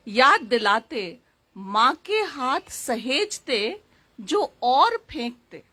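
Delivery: measured verse reading with pauses between phrases; poem recitation. Acted. Poet reciting verses about her mother to an audience, poem recitation. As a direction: recite it line by line, lingering on each phrase.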